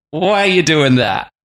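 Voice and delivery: mock scolding wife. Wives questioning their tomato-rubbing husbands, mock scolding. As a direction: question him like an imagined exasperated wife.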